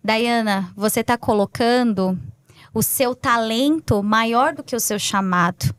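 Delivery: low, tender voice of the Lord, retold; calm, mild divine counsel; sweet, gentle God. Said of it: "com aquela voz doce, mansa".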